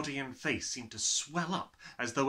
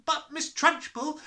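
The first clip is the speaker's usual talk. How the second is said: put-on boy protesting; 8 dB louder than usual. Nigel protesting.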